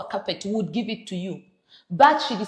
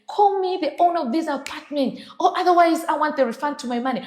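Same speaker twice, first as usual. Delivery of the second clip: retelling a guest's angry demand to the host, raised and a bit faster; mock angry demand; 5 semitones higher than usual. The host imitating a guest demanding the owner, hotter. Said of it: "one of those chaotic".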